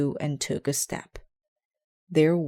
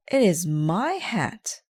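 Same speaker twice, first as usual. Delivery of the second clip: cried out joyfully; 4 semitones higher, 5 dB louder, slower than usual. Acted. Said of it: "cried Detective Dinosaur".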